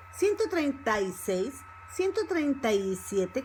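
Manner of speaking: "treinta y" run together, the y joined to the a; linked-up fast speech. Shown as a demonstration. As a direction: link "treinta y" into one gliding sound. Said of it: "when we speak fast".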